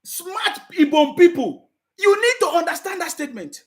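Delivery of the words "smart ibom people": slow, drawn-out rally-speech imitation; lightly voiced statesman praising the crowd, slowly; Baba Tinubu imitation. Vlogger mimicking Tinubu's slow rally praise. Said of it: "Baba Tinubu say".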